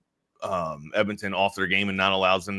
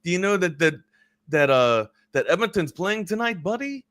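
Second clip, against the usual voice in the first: light French-Canadian impression, voice pitched up; French accent; 6 semitones higher than usual. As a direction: imitate your French-Canadian buddy, rising on the last word. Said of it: "he's got a French accent too".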